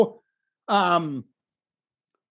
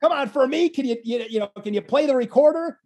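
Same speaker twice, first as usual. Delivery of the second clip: laughing plea; 3 semitones higher than usual. Retold or imitated. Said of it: "that's where I was like".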